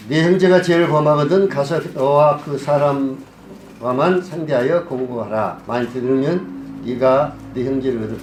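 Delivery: steady, formal Bible reading; scripture reading. Acted. Preacher reading Matthew eighteen to the congregation, formal recitation. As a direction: read the verses out evenly to the congregation.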